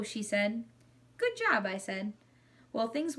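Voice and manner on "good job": very high, squeaked praise; squeaky hamster. A narrator's reading. Hamster praises mom learning English, high squeaky voice. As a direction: pipe it up high like a small hamster.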